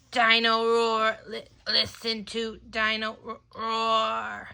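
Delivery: slow, faltering toy song; toy running down. Acted. Dying toy dinosaur stutters through its song. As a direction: let the jingle stall like dying batteries. Stops walking and talking completely.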